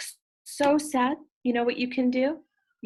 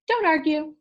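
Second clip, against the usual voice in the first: bossy order; 6 semitones higher, 5 dB louder than usual. Acted. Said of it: "said Mister Happy".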